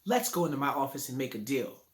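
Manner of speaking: lightly voiced salesman making his pitch; car salesman. Teacher imitating a car salesman selling to a buyer, mild smooth pitch. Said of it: "the car salesman talks like this".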